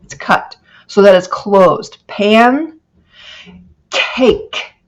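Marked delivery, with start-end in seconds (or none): 2.1-4.8 "Pan" then a breathy "cake", the two parts apart; separated syllables. Shown as a demonstration. Teacher demonstrating two closed syllables, split apart. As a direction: clip each syllable off. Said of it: "The vowel doesn't just keep going".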